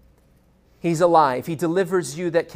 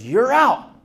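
umpire call; 6 semitones higher, 5 dB louder than usual. Retold or imitated. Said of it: "the umpire goes".

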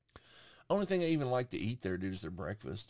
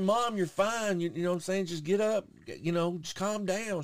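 retold urging; 9 semitones higher, 3 dB louder than usual. Retold reassuring panicked mom.

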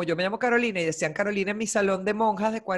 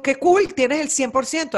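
excited cheer; 5 semitones higher, 4 dB louder than usual. Retold or imitated. Excited reply to daughter.

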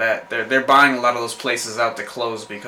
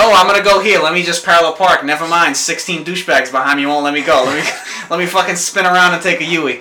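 loud, higher, exasperated rant; frustrated driver; 4 semitones higher, 5 dB louder than usual. Retold or imitated. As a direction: vent like you're stuck in traffic. Acting out a frustrated driver parking.

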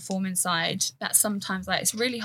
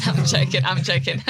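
laughing; 6 dB louder than usual. Real, not acted. Laughing off her joke.

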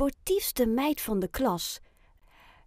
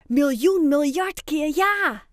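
higher, louder eager shout; proud answer; 5 semitones higher, 6 dB louder than usual. A narrator's reading. Ayoub answers Annemarie proudly and eagerly, high and loud. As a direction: burst with pride. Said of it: "antwoordt Ayoub trots".

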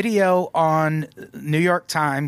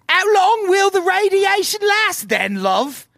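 put-on high, loud British accent; hammed-up British accent, pitched way up; Gorbachev; 4 dB louder than usual. Podcaster mocking the British-cast Gorbachev in the series, exaggerated British accent. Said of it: "Mikhail Gorbachev, and he's like".

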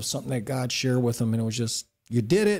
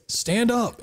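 commanding; 7 semitones higher than usual. Retold or imitated. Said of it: "and he says".

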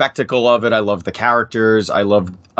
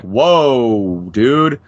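shocked whoa. Retold or imitated. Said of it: "people will be like".

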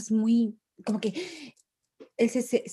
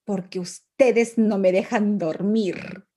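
put-on sleepy angry child; 5 dB louder, much slower than usual. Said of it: "¿Estás enojado?".

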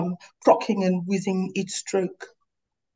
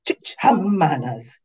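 snapped. Acted. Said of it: "you snapped".

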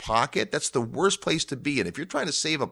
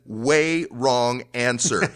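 Bruce Willis line; much slower than usual. Retold or imitated. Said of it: "In the words of Bruce Willis from Armageddon".

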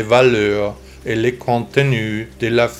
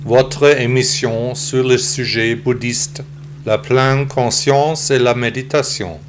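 synthetic text-to-speech computer voice. Real, not acted. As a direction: read like a computer voice. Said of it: "j'ai décidé d'enregistrer le podcast avec une voix d'ordinateur".

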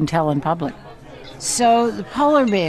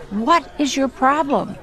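slow, high, fed-up groan of a question; fed up with the nagging cub; exasperated; 8 semitones higher, slower than usual. Retold or imitated. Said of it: "they're all exasperated".

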